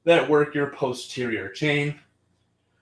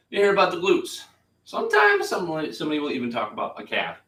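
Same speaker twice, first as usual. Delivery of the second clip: excited; 6 semitones higher, faster than usual. Real, not acted. Building up excited rant.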